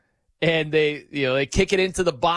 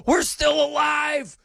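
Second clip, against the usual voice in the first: ecstatic fan shout; 10 semitones higher, slower than usual. Retold or imitated. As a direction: shout it like fans who just saw the equalizer. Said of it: "crying tears".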